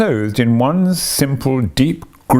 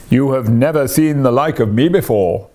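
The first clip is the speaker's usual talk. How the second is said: exclaimed; 2 semitones higher than usual. A narrator's reading. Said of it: "exclaimed the spirit".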